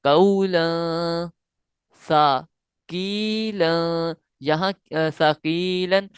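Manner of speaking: very slow recitation, held nasal; recitation with ghunna. Shown as a demonstration. Teacher demonstrating ghunna to students, very slow. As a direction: draw the word out with nasal hum. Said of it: "हम गुन्ना करेंगे".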